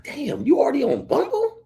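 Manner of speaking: high, squeaky incredulous question; retold shock, pitch leaping way up; mock disbelief. Man joking about a new widow on Bumble, incredulous.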